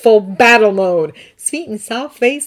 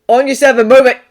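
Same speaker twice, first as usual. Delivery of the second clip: louder, clipped command to the team; urgent call; 5 semitones higher, 11 dB louder, faster than usual. Acted. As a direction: yell the order mid-chase. Urgent chase, calling to friends.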